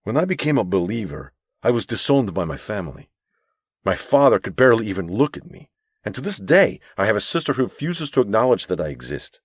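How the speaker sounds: lightly voiced gentle older mentor; a hint of a kind, pleading elder; earnest mentor. Narrator voices Abram.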